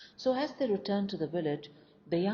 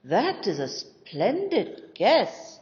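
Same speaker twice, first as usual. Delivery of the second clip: slow, much louder, higher, ringing approval; delighted exclamation; 5 semitones higher, 10 dB louder, much slower than usual. A narrator's reading. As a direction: boom out your delight at the answer. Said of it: "exclaimed the landowner".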